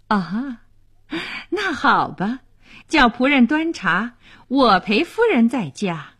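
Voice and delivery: light laugh into a cheerful concession. Acted. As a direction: laugh it off, playfully agreeing. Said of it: "勒利夫人笑道".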